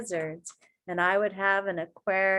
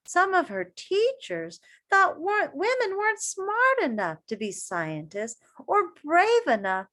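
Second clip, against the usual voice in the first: put-on reading to children. A narrator's reading. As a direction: read it to a circle of kids. Reading picture book aloud.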